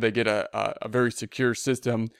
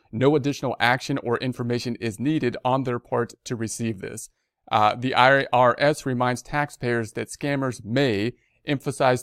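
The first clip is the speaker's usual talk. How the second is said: measured read-aloud of an official notice; news read. Real, not acted. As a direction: read the bulletin out formally. Reads the notice.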